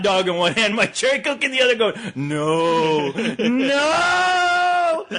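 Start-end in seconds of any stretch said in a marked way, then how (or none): 2.1-3.1 drawn-out no at normal pitch; restrained movie-hero dread; mock dismay. Ash impression, first of two cries. 3.1-5.0 long, high wailed NO; hammed-up horror-hero howl; mock horror cry. Ash impression, escalating cry.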